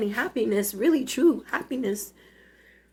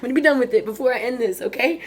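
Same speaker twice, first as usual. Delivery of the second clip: laughing through tears; 4 dB louder, faster than usual. Real, not acted. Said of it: "stuck in it for forty minutes".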